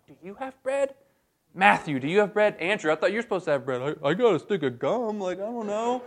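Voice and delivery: high, rushed mock panic; frantic disciple. Disciples quizzing each other about bread, high flustered mock panic. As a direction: squeak it out like a flustered follower.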